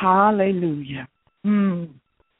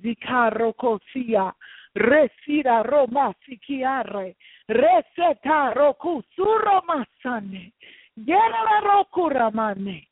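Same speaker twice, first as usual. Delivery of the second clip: speaking in tongues; 3 semitones higher than usual. Real, not acted. Pastor praying to God in tongues, rising fervour. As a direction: pour out praise in a heavenly language. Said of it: "go into a heavenly language".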